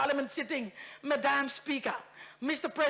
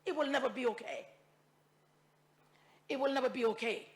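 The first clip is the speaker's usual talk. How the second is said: much softer, almost to herself; quiet repetition; 5 dB quieter than usual. Real, not acted. Repeats the line, dropping away.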